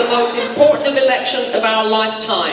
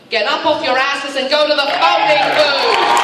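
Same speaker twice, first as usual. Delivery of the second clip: raised voice, higher and hard-driving; fired-up shout; 4 semitones higher than usual. Real, not acted. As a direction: yell it at the crowd to get them moving. Urging young people to vote.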